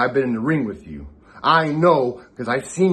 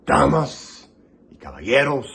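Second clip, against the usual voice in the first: lucha libre announcer. Acted. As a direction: announce it to the arena. Opens promo in Spanish.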